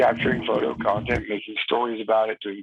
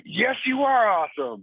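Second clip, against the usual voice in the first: much higher mock scream, only slightly louder; retold scream; 9 semitones higher, 3 dB louder than usual. Customer answering the server across a restaurant, mock screaming. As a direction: imitate a delighted scream, pitched way up. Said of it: "she would scream".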